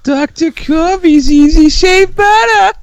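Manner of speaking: put-on high, slow Boston accent ad read. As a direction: drawl it in a thick Boston accent. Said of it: "that Boston accent".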